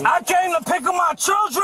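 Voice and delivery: yelling to be heard; shouting. Real, not acted. Father protests arrest.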